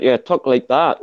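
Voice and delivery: put-on Scottish accent. Shown as a demonstration. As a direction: imitate a Scot. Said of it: "you get the Scottish accent".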